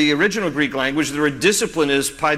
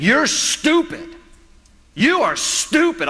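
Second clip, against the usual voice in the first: high-pitched, drawn-out mock yell of a bratty child; mock a kid yelling at his mom, high and slow; imitating yelling kid; 9 semitones higher, slower than usual. Kid demanding a toy from his mom, mock yelling. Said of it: "just yelling at his mom".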